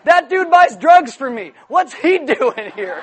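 high, loud, slow disbelief; hammed-up outrage, stretching the words; indignant shock. Dealer spotting his customer in church, mock indignant shock.

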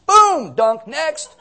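playful baptizer moving the line along; brisk mock dunk. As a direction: clip it off like an assembly line. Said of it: "He'd be like".

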